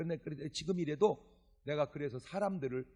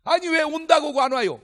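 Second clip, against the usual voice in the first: exasperated complaint; 11 semitones higher, 12 dB louder than usual. Retold or imitated. Evangelist confronting no-show.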